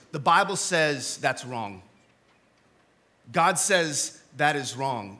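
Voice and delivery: slow, deliberate preachy correction; slow stern rebuke. Retold or imitated. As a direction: lay it down slowly like a verdict. Quoting a rebuke.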